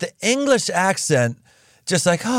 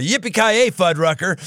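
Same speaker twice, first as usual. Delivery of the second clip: quicker, lighter "yippee-ki-yay" jumping high then a rise; catchphrase punchline; 5 semitones higher than usual. Retold or imitated. Host swaps the swear for a clean joke, quick and playful. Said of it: "the Fuddrucker language right there".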